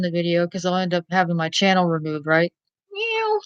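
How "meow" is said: high, soft mock meow; cat meow. Her cat meowing at the viewers, high and soft. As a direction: squeak it out like a tiny cat. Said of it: "The cat going".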